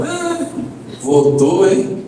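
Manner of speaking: wife's understated mocking jibe; lightly acted taunt; imitated teasing. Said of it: "E ficou tirando uma comigo".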